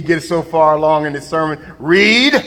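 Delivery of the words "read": a sharp call of "Read." with a rising end; preacher calling read. Retold or imitated. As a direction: bark "Read." at the reader mid-sermon. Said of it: "while the preacher preaching".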